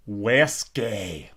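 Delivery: Wesky said the Austrian way, like a German word; Austrian brand name. Shown as a demonstration. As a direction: pronounce Wesky as the local name, not the English whiskey. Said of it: "W O A Z".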